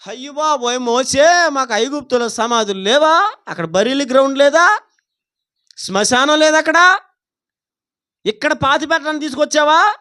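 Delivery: mock-panicked protest with rising questions; acted complaint. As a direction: imitate the people whining at their leader. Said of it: "ఏమన్నారు?". (భయంతో ఫిర్యాదు చేస్తున్నట్టు అనుకరిస్తూ)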